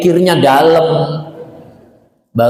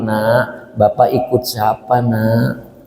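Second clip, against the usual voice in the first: put-on pleading old father; 4 semitones lower, slower than usual. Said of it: "Ngomongnya beda lagi".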